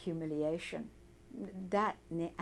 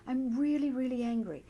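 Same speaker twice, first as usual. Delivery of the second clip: a raised, insistent admission of anger; emphatic anger; 5 semitones higher than usual. Pretend. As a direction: push the anger out as you tap. Tapping script, voicing own anger.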